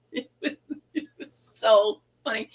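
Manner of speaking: laughing through the words; words breaking into real laughter; giggling as she says it. Real, not acted. Laughing while retelling.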